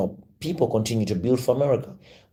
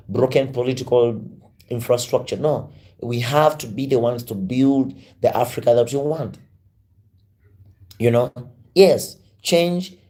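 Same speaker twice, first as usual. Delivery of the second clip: raised, insistent orator's voice; rousing speech; 2 semitones higher than usual. Acted. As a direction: preach it to the crowd, building conviction. Rousing Pan-African speech to audience.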